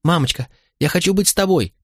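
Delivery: put-on high-pitched pleading boy; acted small boy's wail; child's tearful wailing. A narrator's reading. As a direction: plead like a sobbing little child. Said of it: "верещал, заходясь в плаче".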